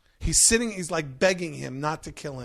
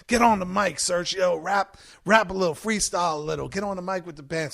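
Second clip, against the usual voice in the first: excited urging; 3 semitones higher, 4 dB louder than usual. Retold or imitated. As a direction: hype him up to get on the mic. Bill urging him to rap.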